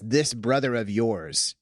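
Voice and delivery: slow, gentle this brother of yours, a twinkle in the voice; gentle, meek father. Retold or imitated. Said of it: "like, gently, meekly, like, with a twinkle in his eye".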